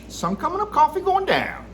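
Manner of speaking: opening the pipe review for his viewers, bright and loud; cheery catchphrase. Real, not acted. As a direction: belt it out like a morning slogan.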